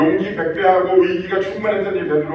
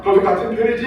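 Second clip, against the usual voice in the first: higher, pushy accusing jab; bullying accusation; 6 semitones higher, 3 dB louder, faster than usual. Retold or imitated. Bystanders cornering Peter, mock bullying accusation. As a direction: browbeat him like a bystander. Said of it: "막 윽박지르는 거예요".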